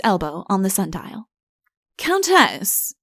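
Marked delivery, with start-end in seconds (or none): 2.0-2.9 stern. A narrator's reading. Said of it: "he began sternly".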